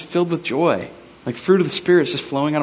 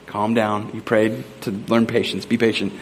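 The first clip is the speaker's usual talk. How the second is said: mildly restrained self-talk, a little lower; self-calming; 4 semitones lower than usual. Retold or imitated. Frustrated dad reminding himself he prayed for patience, self-calming. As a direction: talk yourself down, lightly acted.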